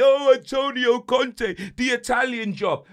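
slow, put-on voice aping the people who hyped him; mock rival fans chatting about Conte; mocking the hype. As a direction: parody the pundits' excitement. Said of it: "Man wanna chat to me".

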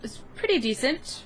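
high, eager boast; excited. Real, not acted. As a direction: sound pleased with yourself. Proud of stats.

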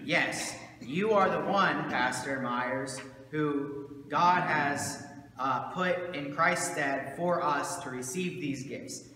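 slow, emphatic mock congregation blessing; emphatic affirmation. Congregation telling their pastor he is called, emphatic affirmation. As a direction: affirm him firmly, drawing out the words.

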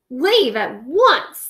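demanding. Acted. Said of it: "the king demanded".

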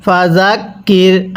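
জাক begun with a soft Arabic zal, not a j; careful recitation, soft consonant opening জাক. Shown as a demonstration. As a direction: model জাক with a softened z-like sound. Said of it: "এই জালটা আমরা নরম করে পড়ব".

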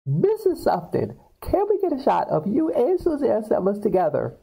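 high-pitched press shout-out for a photo; calling reporter. Retold or imitated. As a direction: imitate an eager reporter calling out. Voicing reporters calling out to her.

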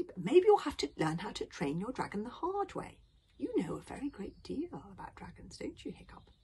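put-on high elderly coaxing; knowing old grandfather. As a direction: lead the boy on knowingly.

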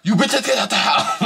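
high, slow hammed-up tough girl; mock tough stripper. Imitating Jocelyn ordering the girls out, hammed-up and high. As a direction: strut it out like the Terminator. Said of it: "this is how that bitch walk with her back".

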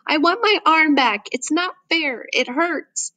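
high-pitched, upset wail, held back in volume; screaming child. A narrator's reading. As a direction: cry out in protest and pain. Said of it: "Seidu's screaming now".

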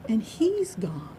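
slow, breathy near-whisper; hushed finality. A narrator's reading. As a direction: let it fade into a hush. Storyteller announces the pig's death.

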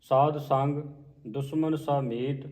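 slow, measured line-by-line reading; scripture recitation. Shown as a demonstration. Teacher modelling a scripture reading for learners, slow measured recitation. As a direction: recite each phrase slowly with pauses between.

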